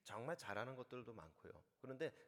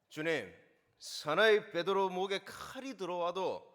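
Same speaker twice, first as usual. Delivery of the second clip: roaring Gyeongsang dialect, much higher and louder, slow; 7 semitones higher, 20 dB louder, slower than usual. Shown as a demonstration. Preacher playing Peter as a Busan man, shouting his vow. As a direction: bellow it like a proud Busan man. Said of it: "경상도 들어갑니다".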